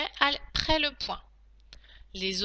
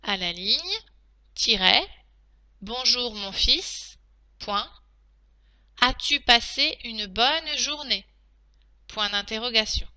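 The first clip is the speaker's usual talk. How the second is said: steady reread of the dictation. Shown as a demonstration. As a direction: read it back for checking. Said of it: "je vais donc maintenant relire la dictée".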